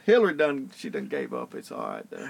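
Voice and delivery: lightly voiced Clinton gossiping; Bill Clinton voice. Keeps joking as Clinton for his laughing friend. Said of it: "in a Bill Clinton voice".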